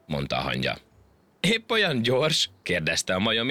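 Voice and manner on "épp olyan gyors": mocking laughter. A narrator's reading. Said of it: "a hasát fogta nevettében".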